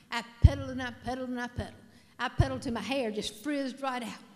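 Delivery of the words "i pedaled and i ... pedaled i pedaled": fast and loud, tumbling out; frantic pedaling. Acted. Comedian telling her frantic bike ride, fast and loud. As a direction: rush it like pedaling for dear life.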